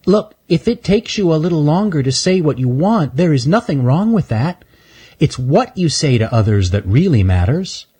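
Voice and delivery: put-on high, gentle reassuring girl squirrel; little girl squirrel reassuring Stanley; little girl squirrel, kind. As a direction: comfort him kindly. Shelby reassures kindly.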